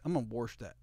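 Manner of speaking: "warsh" for wash, with an added r; intrusive r. Shown as a demonstration. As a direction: say "warsh" with an r before sh. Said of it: "I do say warsh".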